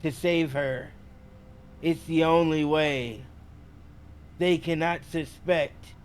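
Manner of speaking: flat, distant entranced voice; strange monotone. Acted. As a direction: speak as if lost in a trance. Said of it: "They respond in a strange monotone".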